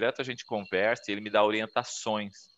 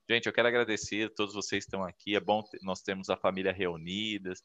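a hint of a heartfelt toast, softer; lightly voiced grateful host; family toast; 3 dB quieter than usual. Shown as a demonstration. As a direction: give a touched little speech at the family barbecue. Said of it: "Faz um discurso ali".

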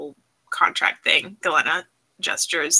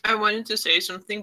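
talking through a mouthful of chocolate; words round a bite of chocolate; mouth full; 3 semitones higher than usual. Real, not acted. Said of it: "my mouth is full of chocolate".

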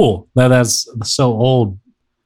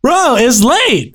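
drawn-out yawning, higher pitch; 12 semitones higher, much slower than usual. Real, not acted. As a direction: say it mid-yawn. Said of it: "Are you yawning, bro?".

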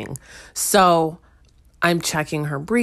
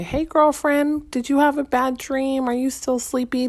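gentle mom voice; 7 semitones higher than usual. Retold or imitated. Mom gently asks crying toddler.

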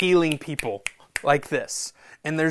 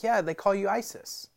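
imitating little kid; 6 semitones higher than usual. Kid voiced in retold story.

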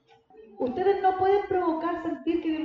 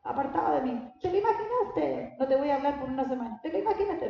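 imaginary God who scolds, lightly hammed up with a laugh; mock stern God. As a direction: play a petty, offended God, exaggerated. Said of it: "¿O tú crees que Dios es como".

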